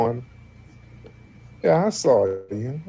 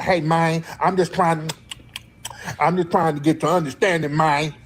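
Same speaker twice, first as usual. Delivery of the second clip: higher-pitched mimicry of the caller's forced accent; mock Fed talk accent; 4 semitones higher than usual. Host mocking a suspected fed caller, fake forced accent. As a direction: imitate a fake Ebonics accent. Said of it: "that's Fed Talk one oh one".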